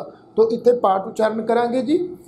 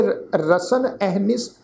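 drawn-out, measured chant of the verse; scripture read like a path; slow scripture recitation; much slower than usual. Acted. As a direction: intone each word slowly, reverently. Recites verse line slowly.

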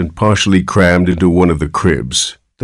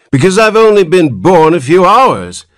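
put-on higher whiny old man; querulous whine; 8 semitones higher, 4 dB louder than usual. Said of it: "replied the querulous whine".

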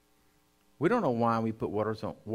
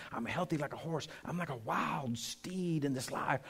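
confident confession. Shown as a demonstration. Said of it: "He wants you to be saying".

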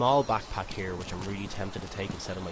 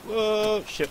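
surprised; 13 semitones higher, 6 dB louder than usual. Real, not acted. Sudden zombie attack.

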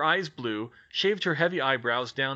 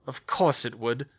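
grumbling. Acted. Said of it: "Hermione grumbled to herself".

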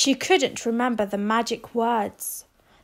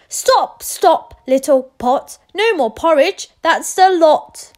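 louder, higher magic words to the pot; firm command; 5 semitones higher, 8 dB louder than usual. Acted. Rose commanding the magic pot to stop. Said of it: "Rose said".

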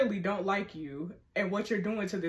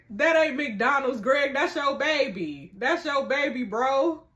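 teasing; 4 semitones higher, 5 dB louder than usual. Real, not acted. Teasing the character Greg.

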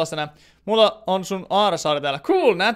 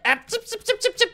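squeaky tsip noises. Retold or imitated. Imitating a noise in the game.

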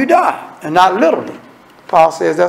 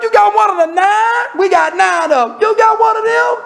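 high, excited bragging; a judge voiced high and gleeful; boasting judge; 12 semitones higher than usual. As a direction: crow about landing one of the nine. Judges boasting about their member.

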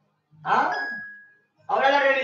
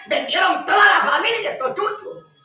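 preaching shout; 6 semitones higher than usual. Real, not acted. Radio preacher denouncing traitors to listeners, shouting. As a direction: cry out against the traitors.

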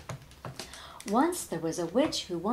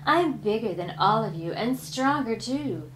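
boastful creaky mummy voice; dusty mummy rasp; 3 dB louder than usual. Acted. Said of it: "boasted the mummy".

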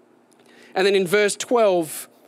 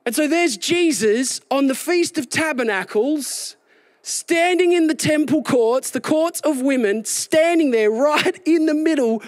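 fiery preaching; 8 semitones higher than usual. Acted. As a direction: lift the crowd as you paint the scene. Preacher building to a climax.

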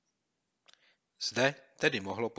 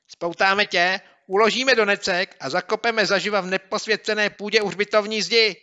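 much higher and louder, shrill menace; shrieked threat; 12 semitones higher, 13 dB louder than usual. Acted. Boy screeching revenge at the bully, shrieking. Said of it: "zaječil Měouk".

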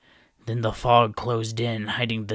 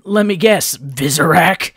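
sardonic guess; 6 semitones higher, 10 dB louder than usual. A narrator's reading.

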